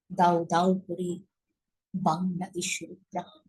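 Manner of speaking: measured poetry recital with dramatic pauses; poem recitation. Shown as a demonstration. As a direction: recite the whole poem with feeling, unhurried. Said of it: "আবৃত্তি করছি".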